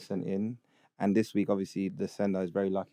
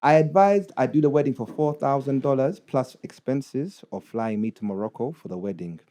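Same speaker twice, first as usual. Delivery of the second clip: put-on Ugandan accent; 3 dB louder than usual. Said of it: "read it in a Ugandan accent".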